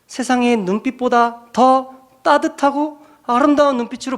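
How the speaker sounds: 높게 끌어올린 설교 목소리; 사랑을 호소하듯 고조시키기; 힘주어 설교. Acted. (교인들에게 예수님의 눈빛을 높여 전하는 설교)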